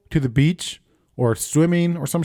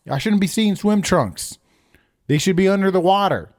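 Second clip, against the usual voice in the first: mock rant; 4 semitones higher than usual. Mock rant about lazy river.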